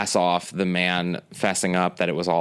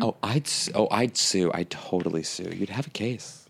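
sweet soft; 5 dB quieter than usual. Retold or imitated. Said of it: "sweet, like, she's laughing".

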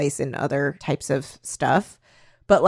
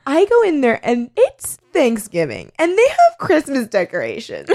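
put-on high, valley-girl vlogger rant; 8 semitones higher than usual. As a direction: gush like a car-selfie vlogger. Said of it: "it was just her being like".

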